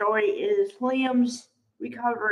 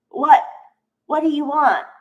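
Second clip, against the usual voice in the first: mock annoyed snap, a bit higher and louder; irritated snap; 4 semitones higher, 5 dB louder than usual. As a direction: bark it back like an irritated doctor. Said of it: "She's really agitated".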